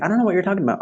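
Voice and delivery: high-pitched innocent denial; feigned innocence. Retold or imitated. Son caught by mom at the door, feigning innocence.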